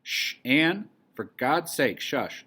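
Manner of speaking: loud, high, urgent shushing; frantic hushing. A narrator's reading. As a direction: hush her in a panic before anyone hears. Frantic shushing of screaming girl.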